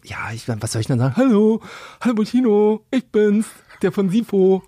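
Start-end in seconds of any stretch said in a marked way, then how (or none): 1.2-4.6 awkward fan greeting. Pretend. Imagined awkward greeting to a rapper.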